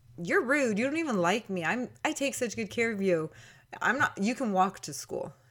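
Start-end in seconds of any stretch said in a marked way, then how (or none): 0.2-3.3 silly, playful, pitched-up teasing tone. Retelling a reply to being jokingly told to get out of the bathroom; retelling joking back. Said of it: "I thought that I was joking back to him".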